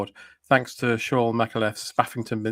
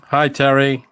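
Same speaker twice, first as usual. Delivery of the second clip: lightly voiced American comic; hint of John Belushi; American accent; 4 dB louder, slower than usual. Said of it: "John Belushi".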